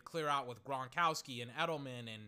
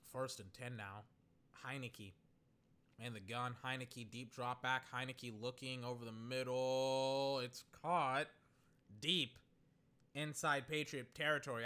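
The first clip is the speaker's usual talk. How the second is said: suspenseful play-by-play; 4 semitones lower, 4 dB quieter than usual. Real, not acted. Live play-by-play as pass develops.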